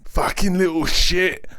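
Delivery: high, slow, drawn-out snarl. A narrator's reading. Kicked officer to the little dog, pained high snarl. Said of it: "the police officer snarled".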